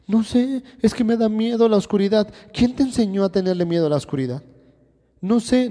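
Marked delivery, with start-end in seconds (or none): 0.1-2.3 put-on lightly raised child voice, a bit higher; a hint of a frightened little girl; daughter's scared answer. 5.2-5.7 put-on lightly raised child voice, a bit higher; a hint of a frightened little girl; daughter's scared answer.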